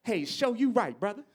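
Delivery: lightly done blaxploitation-era hipster; a hint of a cool 70s street voice; seventies jive talk. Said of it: "they used to say shit like".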